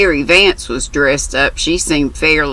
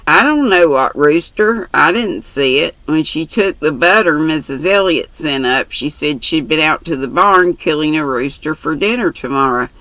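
lightly voiced brash country girl; chatty, bold young girl. Mary's dialogue voiced.

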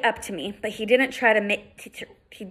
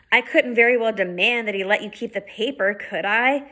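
calm, measured explaining; a hint of a patient big brother, calm; reasonable voice. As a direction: talk her down patiently. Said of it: "his reasonable voice".

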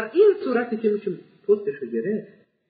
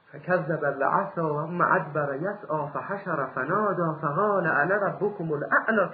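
slow, measured Quranic chant; recited verse, slow and reverent; Quran recitation; slower than usual. Acted. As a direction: intone the verse slowly and solemnly.

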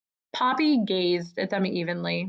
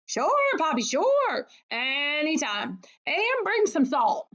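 high, excited character voice; eager welcome; 6 semitones higher than usual. A narrator's reading. Areath telling Poppy to come back and visit, eager and high-pitched. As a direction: pitch leaps up with eager agreement.

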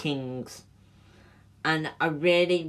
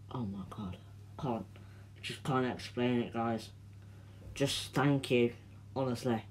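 tearful; 3 semitones lower, 8 dB quieter than usual. Real, not acted. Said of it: "I was real crying".

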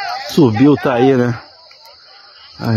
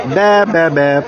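a light mock goat bleat; lightly imitated bleat; much slower than usual.

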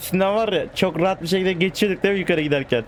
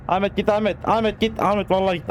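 mock pleading call; 6 semitones higher than usual. Real, not acted. Calling at truck driver Ahmet.

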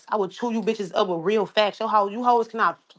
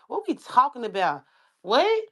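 surprised; 3 semitones higher than usual. Real, not acted. Incredulous outburst.

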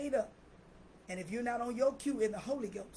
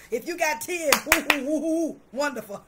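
joyful exclaiming; 4 semitones higher, 9 dB louder than usual. Real, not acted. Joyful exclaiming about blessings.

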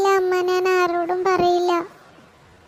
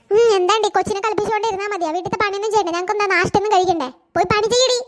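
berating mother-in-law; 2 semitones higher, faster than usual. Acted. Mother-in-law scolding the daughter-in-law for playing with the baby, in a harsh rapid scold. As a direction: order her back to work harshly.

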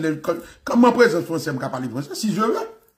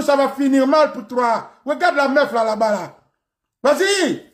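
high-pitched, quarrelsome Senegalese French; mock a Senegalese man squaring up, pitched high; Senegalese accent; 5 semitones higher than usual. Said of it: "ça, c'est le Sénégalais". (accent sénégalais, aigu et bagarreur)

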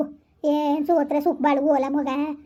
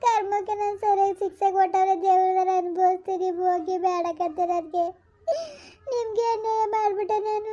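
tearful pleading; 4 semitones higher than usual. Acted. Wife begs husband's forgiveness.

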